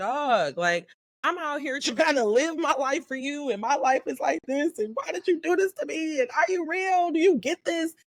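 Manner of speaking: acted-out upset yelling, close to tears, pitched high. Recounting cussing God out while crying, retelling a tearful yell. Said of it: "I'm yelling at him because I'm like".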